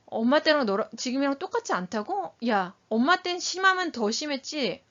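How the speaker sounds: acted indignation, mildly heated; angry parent. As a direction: argue back like an offended parent. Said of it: "화를 같이 내게 되죠".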